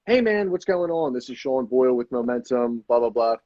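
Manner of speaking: flat, unexcited cold-call intro; flat sales tonality. Shown as a demonstration. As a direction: open the call without any lift, sinking as you go. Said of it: "'Cause my tonality's flat".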